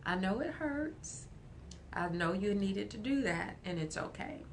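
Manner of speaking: put-on soft, gentle comfort to a hurt child; reassuring parent. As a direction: soothe a little kid. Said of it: "letting that kid know".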